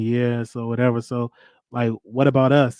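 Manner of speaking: low, stoned-sounding smooth talk; deepened voice. Retold or imitated. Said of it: "why your voice getting deeper".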